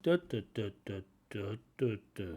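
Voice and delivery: low, soft, falling da da da; sad intonation. Shown as a demonstration. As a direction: droop the melody like sadness. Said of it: "something sad".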